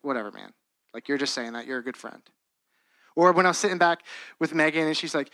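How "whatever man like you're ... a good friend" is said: dismissive. Retold or imitated. Imagined brush-off of friend's compliment.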